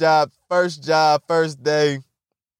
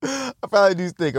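said through a laugh; giggling admission; 3 semitones higher than usual. Shown as a demonstration. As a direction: laugh it out while admitting it.

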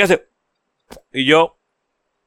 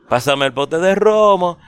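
calling out; 4 semitones higher, slower than usual. Retold or imitated. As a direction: shout it out to the audience slowly. Calling to crowd onstage.

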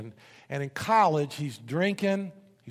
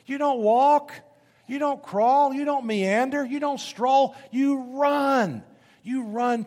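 loud, high, pounding preacher cry; rising sermon shout, full force; preaching shout; 9 semitones higher, 5 dB louder, slower than usual. Real, not acted. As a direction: hammer each line home to the crowd. Preacher urging the congregation to run.

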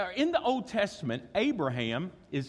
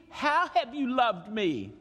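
skeptical question; 7 semitones higher, slower than usual. Acted. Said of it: "but you ask me".

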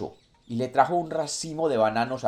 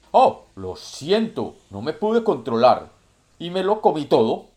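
greedy puma voice; 4 semitones higher, 6 dB louder than usual. Acted. Greedy puma gulps the fish.

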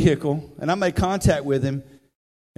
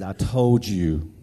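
low, drawn-out divine voice; slow, deep and smooth as God speaking; a deep-voiced soul singer; 7 semitones lower, much slower than usual. Retold or imitated. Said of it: "a soul singer".

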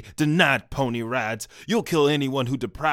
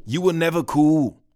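loud retort; 5 semitones higher, 7 dB louder than usual. Acted. Detective snaps back.

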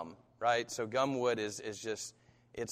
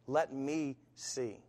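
slow, softer, drawn-out plea; God's faint voice repeating gently, slowly; 5 dB quieter, much slower than usual. Acted. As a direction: let it fade like a far whisper. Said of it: "a faint voice".

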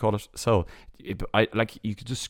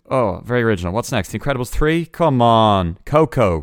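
exasperated rant; 3 semitones higher, 8 dB louder than usual. Real, not acted. Ranting at unoriginal titles.

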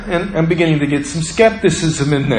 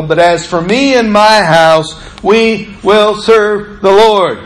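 proclaiming the verse with rising force; scripture reading. Acted. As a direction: read it out like a preacher's charge. Reads Joshua's charge aloud.

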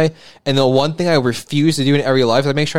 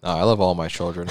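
movie villain; 7 semitones lower, 6 dB quieter than usual. Acted. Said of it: "You said that in the tone of, like, the villain in the movie".

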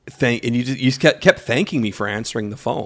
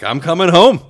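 "I'm coming home" louder and higher, insisting; insistent retold shout; 7 semitones higher, 6 dB louder than usual. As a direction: push "I'm coming home" out, raised and firm. Insisting to wife he's quitting.

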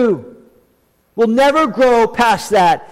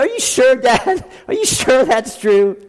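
son's amazement; 5 semitones higher than usual. Retold or imitated. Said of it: "He said".

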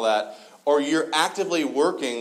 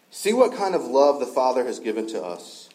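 scripture reading. Acted. Scripture read in passage.

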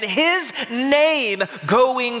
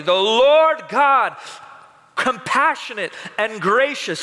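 proclamation; 5 semitones higher than usual. Acted. The Lord proclaims his name to Moses, raised and ringing. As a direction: proclaim the Lord's name like a herald.

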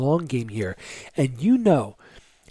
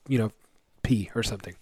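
whispered aside; 3 semitones lower, 4 dB quieter, faster than usual. Real, not acted. Joking aside about leaving.

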